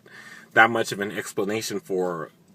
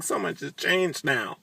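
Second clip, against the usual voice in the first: higher, softer dreamy put-on; airy mocking sigh of a line; mock Sookie; 8 semitones higher, 5 dB quieter than usual. Sookie brushing off Warlow, in a soft mocking voice. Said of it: "she was like".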